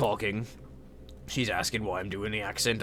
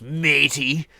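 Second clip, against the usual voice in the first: "matey" said hard and louder; imitated pointed emphasis; 2 semitones higher, 6 dB louder than usual. Man eyeing the pirate as he leaves, "matey" hit hard. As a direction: throw out "matey" like a slur. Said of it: "squints a little when he says".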